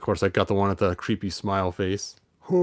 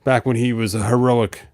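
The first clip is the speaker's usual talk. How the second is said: lightly voiced figure. Figure voiced complaining about fatherhood.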